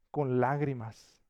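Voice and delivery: "Con lágrimas" slow and weighty; stress on lágrimas. Shown as a demonstration. Pastor answers his own question, slow on "Con lágrimas". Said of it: "¿Cómo amonestaba Pablo".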